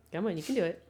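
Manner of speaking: ordinary delivery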